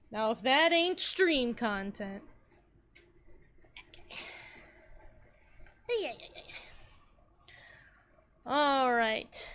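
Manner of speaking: talking with a mouth full; words round a bite of sandwich; mouth full of peanut butter. Real, not acted. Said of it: "hear me with just a mouthful of peanut butter".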